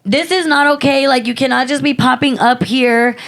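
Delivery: indignant quote; retold scolding.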